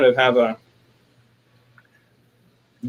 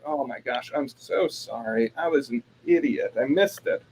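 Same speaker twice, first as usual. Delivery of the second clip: retold apology; 6 dB quieter than usual. Acted apology after realizing.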